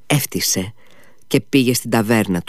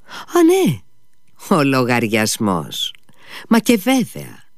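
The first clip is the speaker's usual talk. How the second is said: jumps much higher on Α, ναι; sudden remembering; 4 semitones higher, slower than usual. Acted. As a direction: caught off guard, then airy. Ο Μήτια θυμάται το λογαριασμό. (ξαφνιασμένα, πολύ ψηλά)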